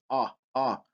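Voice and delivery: "Ah, ah" as two separate open vowels; isolated vowel demo. Shown as a demonstration. Teacher isolates the vowel in misogynist, open AH. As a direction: sound out "ah" twice, evenly. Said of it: "it's misogynist".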